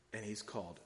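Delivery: a hushed called... wicked; soft and weighty. Shown as a demonstration. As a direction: drop the voice and let wicked sink in. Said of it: "Let that sink in a little bit".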